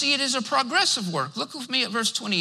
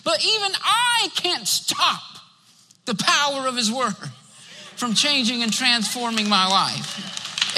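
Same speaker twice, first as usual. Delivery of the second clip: voice breaking with emotion. Real, not acted. Preacher confessing his faults to the church, voice breaking. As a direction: let the tears catch on it.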